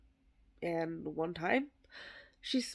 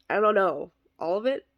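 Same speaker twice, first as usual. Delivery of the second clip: louder, exasperated admission; half-laughed exasperation; helpless shrug; 7 dB louder than usual. Retold or imitated. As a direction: blurt it like it's obvious. Mock helpless answer, louder.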